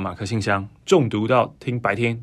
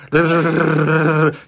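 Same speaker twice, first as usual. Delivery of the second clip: rolled r; 4 semitones higher, 5 dB louder than usual. Shown as a demonstration. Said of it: "快速震动".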